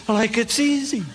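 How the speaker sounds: lightly voiced California surfer; easygoing surfer explaining, half-stoned; surfer dude voice. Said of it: "He said".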